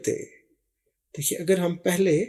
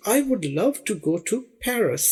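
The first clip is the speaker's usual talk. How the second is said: slow example read; 3 semitones higher, much slower than usual. Shown as a demonstration. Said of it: "جملے سے دیکھیے".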